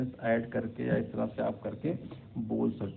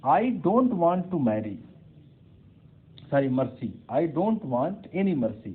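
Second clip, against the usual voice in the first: blunt demand; 4 semitones higher, 5 dB louder, much slower than usual. Shown as a demonstration. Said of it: "और अगर ये कहिए".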